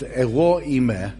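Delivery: ego eime repeated slowly in Greek, eh-roh ee-meh; Greek pronunciation. Shown as a demonstration. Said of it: "in the original Greek, it's".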